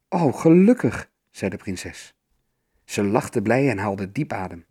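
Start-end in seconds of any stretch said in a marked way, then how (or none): 0.1-1.1 relieved. A narrator's reading. Princess hears she is destined.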